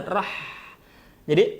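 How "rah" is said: "Rah" ending in a long breathy throat h; "Rah" with strong airy pharyngeal h; chilli-burn H. Shown as a demonstration. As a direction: exhale the h of "Rah" like a mouth burning from chilli. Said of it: "seperti orang kepedesan".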